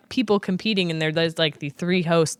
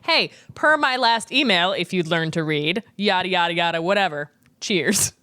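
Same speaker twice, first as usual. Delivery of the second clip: sarcastic. Retold or imitated. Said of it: "I only use that one sarcastically".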